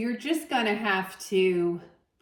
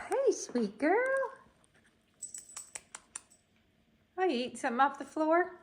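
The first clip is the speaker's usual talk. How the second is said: higher, cooing pet talk; 8 semitones higher, faster than usual. Real, not acted. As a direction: coo at the cat. Talking to her pet.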